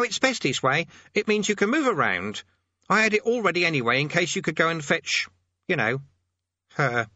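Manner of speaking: put-on high, fussy old demonologist; fussy old man voice. A narrator's reading. Thursley voiced by narrator.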